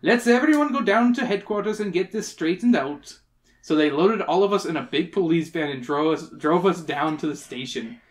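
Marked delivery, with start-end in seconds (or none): 0.0-3.2 herd the crowd along; put-on cop voice; yelling policeman. A narrator's reading. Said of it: "yelled a big red-faced policeman".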